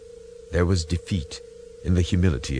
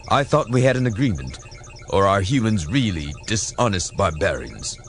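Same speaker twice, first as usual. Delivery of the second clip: indignant Romulan commander; 4 semitones higher, 3 dB louder than usual. Acted. Romulan commander demands explanation.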